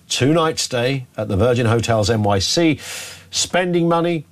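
upbeat radio competition plug; radio host building up a giveaway; promotional read. Real, not acted. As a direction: sell the prize with measured emphasis. Reads a prize promotion.

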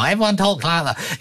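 exaggerated, badly done northern English accent; mock northern accent. Presenter mimicking others' fake northern accents, mock northern accent. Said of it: "how to do a northern accent".

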